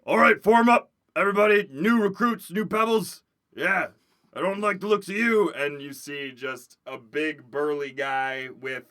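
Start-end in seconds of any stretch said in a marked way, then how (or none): 0.0-5.5 barked orders at new recruits; gruff drill instructor. Acted. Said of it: "you hear a".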